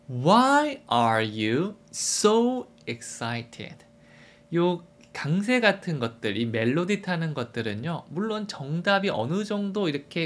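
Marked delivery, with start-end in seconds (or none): 0.1-3.7 "why" stressed, pushed harder than surrounding words. Seeing a friend after a long time, extra stress on 'why'. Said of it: "Why에다가 조금 더 강세를 주면서".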